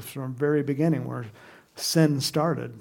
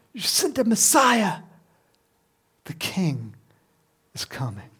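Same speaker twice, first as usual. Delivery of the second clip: tag; 5 semitones higher than usual. Retold or imitated. Crowd's acclamation winding down.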